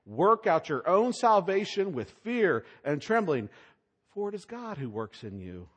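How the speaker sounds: solemn scripture reading, building on fear and trembling; reading scripture aloud. Shown as a demonstration. Preacher reading the verse to the congregation, solemn and weighty. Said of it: "listen to the paradox".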